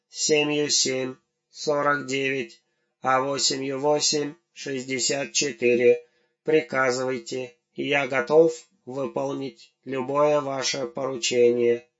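soft, nasty lisping robot voice. Acted. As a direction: lisp the numbers like a servile robot. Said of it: "противным шепелявым голосом проговорил".

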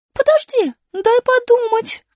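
высоко и громко, дерзко и медленно; подначивай врага; вызов. Acted. Аля осаживает. (высокий дерзкий вызов Али)

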